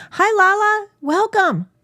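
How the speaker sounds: high loud greeting to a pet. Real, not acted. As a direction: coo hello to the cat. Greeting cat arriving.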